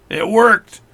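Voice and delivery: sudden happy shout, pitch up; excited. Real, not acted. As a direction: burst out that it finally worked. Watch trick finally works.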